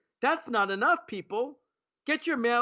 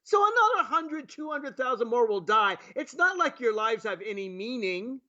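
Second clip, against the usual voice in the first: lightly voiced callous president, a touch higher; a hint of a dismissive leader; mock president; 3 semitones higher than usual. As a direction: sarcastically voice the president not caring. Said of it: "our president says".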